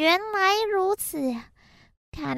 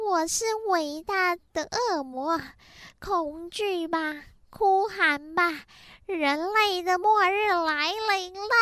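evil demon voice. Acted. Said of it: "可怕的恶魔来到了人界".

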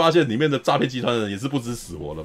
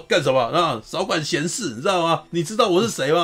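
sneering punk thug; 5 semitones higher than usual. Retold or imitated. Punk thug threatening hero.

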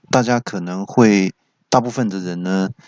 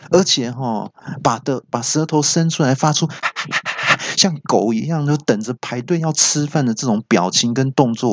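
a touch of surly bite, slightly higher; fierce; 4 semitones higher than usual. Retold or imitated. Coworker snaps at colleague about the report, mildly surly. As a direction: grumble defiantly at the colleague. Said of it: "他就很凶的说".

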